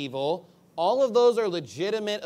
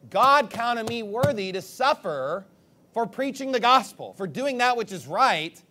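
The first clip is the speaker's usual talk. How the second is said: rising awed praise, slow at first; mock grateful delight; joyful wonder; 3 semitones higher, 4 dB louder than usual. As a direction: exclaim like honored by suffering. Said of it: "be happy, like".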